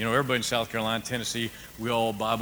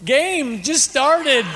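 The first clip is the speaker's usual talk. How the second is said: high, loud and slow, stretched out; mock impatient; 13 semitones higher, 8 dB louder, much slower than usual. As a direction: drag it out like he's interrupting the big game. Pastor joking he ignored the man.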